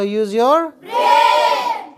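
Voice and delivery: rising at the end. Shown as a demonstration. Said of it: "दिमाग से काम लो".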